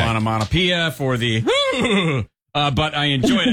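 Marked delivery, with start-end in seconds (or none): 1.5-2.2 high mock whinny; whinny briefly like a horse; imitated horse whinny. Host mimics the banned neigh.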